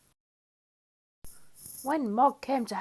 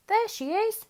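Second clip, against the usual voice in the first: high, bright call of discovery; excited shout; 12 semitones higher, 4 dB louder than usual. A narrator's reading. Nicky spotting Mog in the rain, excited shout. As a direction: shout out the find. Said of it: "shouted Nicky".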